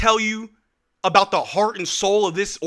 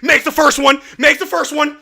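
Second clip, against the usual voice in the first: higher, louder, urgent call; excited play call; 5 semitones higher, 4 dB louder than usual. Real, not acted. Streamer calling a clutch free throw, tense and excited.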